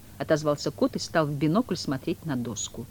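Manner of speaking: usual speaking voice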